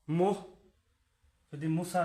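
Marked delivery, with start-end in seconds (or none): 0.1-0.4 মোহ said loud, mo with a final h; bisarga as h. Shown as a demonstration. Teacher demonstrates মোহ to students, final h sounded. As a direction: mark the h at the end of মোহ. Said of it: "মো দিয়ে বিসর্গ দিই, হবে কি".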